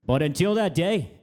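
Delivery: mock Godfather-style favour speech in a wandering JFK accent; a grand, slightly slowed Boston-Kennedy accent, drifting all over the place; JFK-type accent. Offering a coworker coffee, in a hammed-up JFK accent. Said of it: "a J F K type accent".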